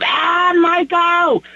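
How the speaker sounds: high squealing fan shriek; screaming fangirl. Pretend. Fan girl seeing a singer, high squeal. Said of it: "that girl pulling my hair out".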